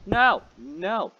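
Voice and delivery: frantic, cornered; real panicked chant of no; panicked no's. Real, not acted. Enemy approaching in game.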